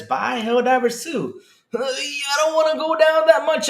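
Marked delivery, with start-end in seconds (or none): 0.0-1.4 slow, spelled-out reading of "Buy Helldivers two"; reading the sign slowly. Shown as a demonstration. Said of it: "Right here it says".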